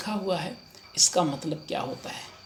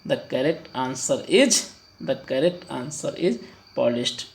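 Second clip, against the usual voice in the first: slow answer announcement; much slower than usual. Shown as a demonstration. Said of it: "announcing answer".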